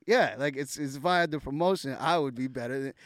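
loud, insistent imitation of a boaster; passionate boast. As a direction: argue it with cocky conviction. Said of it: "he was very passionate about it".

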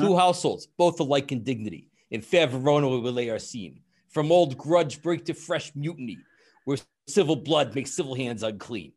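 Shakespeare read in a light Brooklyn accent; a hint of a Brooklyn mob-movie accent. Shown as a demonstration. Showing Romeo and Juliet set in Brooklyn, light Brooklyn accent. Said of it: "set it in Brooklyn".

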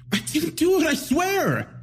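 very high, gasping cry; out of breath and pleading; breathless pleading. Acted. Suspect gasping his innocence while pinned, breathless. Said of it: "still trying to catch my breath".

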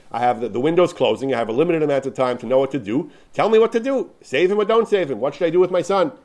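urgent retold plea, rising in pitch; mildly acted desperate father; retold desperate begging. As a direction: plead for an answer as time runs out. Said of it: "he begged me".

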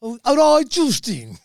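imitated hearty greeting, starting high and loud; a singer. Comedian retelling a star's greeting at a function, hearty impression. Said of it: "a singer, he comes up to me and he goes".

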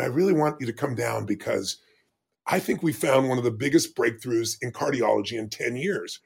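low, hushed, gentle imitation; Bill Kapp. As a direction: imitate a soft-spoken man who makes you lean in. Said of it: "he talks like this".

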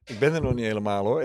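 tired, low and soft after little sleep; barely awake and sleep deprived. Real, not acted. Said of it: "Ik heb vier uur geslapen".

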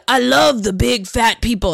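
loud, put-on little kid imitation; child's voice with chin tucked in; toddler voice. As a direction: mimic a two-year-old announcing it to the store. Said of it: "she said it in that voice".

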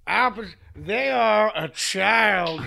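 high, slow, laughing through it. Real, not acted. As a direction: crack up while quoting. Laughing retelling own line.

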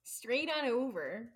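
lightly mimicked Ohio accent, drawn out; teasing Ohio accent imitation; imitated Ohio accent. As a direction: slowly echo it with an Ohio twang. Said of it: "that sounded like straight from Ohio".

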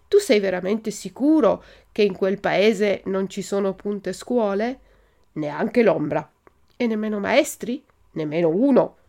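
animated storybook reading with acted dialogue; story narration. A narrator's reading. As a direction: read the dialogue out with lively, rising questions. Reads Pinocchio chapter aloud. (lettura animata di una fiaba)

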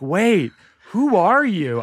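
lightly voiced spaced-out front desk worker; stoned receptionist. Stoned front desk worker asking a patient who he is, slow and baffled.

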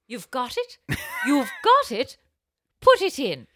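hammed-up British accent. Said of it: "with a British accent".

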